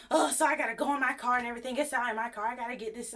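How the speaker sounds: quick, put-upon grumble; mock exasperated customer. A customer griping about walking to his car, quick and put-upon. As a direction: rattle it off like a man inconvenienced. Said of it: "So then he's just like".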